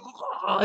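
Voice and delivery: drawn-out pretend agony; mock dying groan. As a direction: act out a death moan. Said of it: "He's, like, dying".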